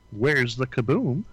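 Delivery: slow, light cartoon Martian voice; puzzled little alien asking slowly; Marvin the Martian. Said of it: "And Marvin the Martian".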